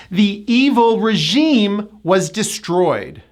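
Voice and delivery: slow example, regime as ruh-ZHEEM; spaced phrases, stressed end of regime; second-syllable stress. Shown as a demonstration. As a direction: lean on the long E in regime. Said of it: "The second syllable gets the stress".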